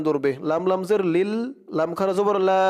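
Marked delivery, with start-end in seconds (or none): 2.5-2.6 "লা" with its long A held for one beat; one-alif stretch. Shown as a demonstration. Teacher showing the madd to learners, "লা" with drawn-out vowel. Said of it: "লা এক আলিফ টান".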